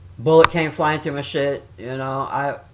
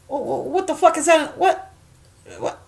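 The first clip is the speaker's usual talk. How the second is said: high stammered double take; retold bafflement; 10 semitones higher than usual. Woman recalling spotting a hole in her wall, baffled. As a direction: act out a stunned, stuttering reaction. Retelling finding the bullet hole.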